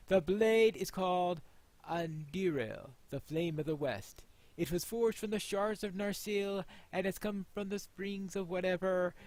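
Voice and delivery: slow, ceremonial lord's voice; solemn presentation. Acted. Player voicing Elrond handing Anduril to Aragorn, solemn. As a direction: present the sword with gravity.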